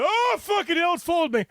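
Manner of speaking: high mock horror at a tap on the shoulder; high panicked dismay. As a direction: shriek it under your breath in mock horror.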